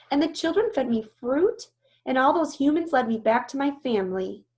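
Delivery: lightly voiced young elephant, eager; a hint of a child's excitement; Ruby recounting. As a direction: tell it brightly and proudly. Ruby telling her rescue.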